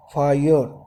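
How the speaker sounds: "फायर" with the R dropped; silent final R. Shown as a demonstration. Teacher demonstrating for students which sounds are spoken, silent final R. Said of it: "र तो बोला नहीं जाता ना".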